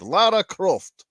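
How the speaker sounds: slow, posh-leaning "Lara Croft" with long vowels; British accent. Shown as a demonstration. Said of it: "You got to say with a little bit of a British accent".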